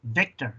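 "Victor" with a buzzing v; English-style "Victor". Shown as a demonstration. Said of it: "tú dices V".

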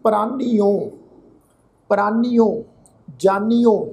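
ਪ੍ਰਾਨੀਓ and ਜਾਨੀਓ ending in a clear -nio; ਜਾਨੀਓ with hora o on the end; careful pronunciation. Shown as a demonstration. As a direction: sound each syllable of ਪ੍ਰਾਨੀਓ, ਜਾਨੀਓ distinctly. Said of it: "ਉਹ ਅਸੀਂ ਇਸ ਢੰਗ ਨਾਲ ਕਰਾਂਗੇ".

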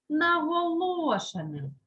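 наголошеним with the stressed «о» drawn out; emphatic key word. Shown as a demonstration. Teacher repeats the rule for pupils, наголошеним stretched.

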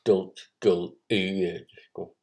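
whispered. Acted. Whispered instructions.

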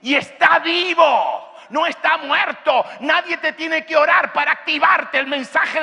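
high, driving pulpit shout; fervent sermon, high-pitched and punchy; impassioned preaching. Real, not acted. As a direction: preach it at full force, building to a shout. Preaches at full force.

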